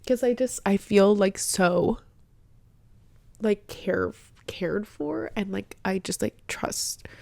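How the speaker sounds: soft, tearful, words breaking up; good tears. Real, not acted. Telling viewers about feeling cared for, softly through happy tears. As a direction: speak through happy tears, barely holding it. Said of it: "these are good tears".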